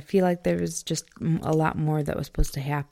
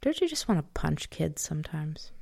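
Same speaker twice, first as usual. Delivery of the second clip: whisper; 5 dB quieter than usual. Real, not acted. Joking aside to partner.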